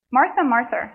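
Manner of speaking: put-on Martha, Martha in a slipped New York accent; light New York accent on Martha, Martha. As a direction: say it like a New Yorker by mistake. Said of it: "sorry, that was my New York".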